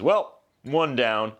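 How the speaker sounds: slow, let-down delivery; lightly acted, halting dad's verdict; resigned concession. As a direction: drag it out with mild mock disappointment. Dad eyes loser son, second take.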